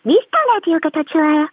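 voice-disguised anonymous caller; altered voice for anonymity; vocoder. Acted. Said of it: "제가 음성 변조로 하고 싶은 말이 있어요". (음성 변조 목소리)

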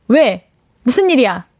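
lightly firm, curt questioning; 단호하게. Pretend. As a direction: play at being no-nonsense. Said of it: "이렇게 단호한 편인 것". (단호한 척 따져 묻듯)

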